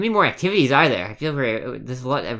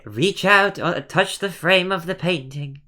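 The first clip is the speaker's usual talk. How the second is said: ghost voice; 3 semitones higher, slower than usual. Acted. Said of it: "I don't sound like a ghost, do I?".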